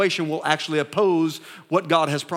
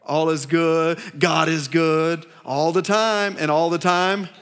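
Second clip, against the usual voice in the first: imitating a rote church chant; rehearsed Christianese; slower than usual. Churchgoer asked how they're doing, giving a rehearsed answer. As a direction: recite it slowly like a memorized slogan. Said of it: "they've rehearsed it".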